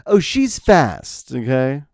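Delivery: slow, drawn-out knowing gossip line; hint of a disapproving old busybody; mock gossip. Mocking old-fashioned gossip.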